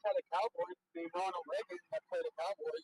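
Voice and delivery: muffled, bubbling voice from a bad mic; underwater. Real, not acted. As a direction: sounds like talking underwater. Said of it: "you sound like you're underwater".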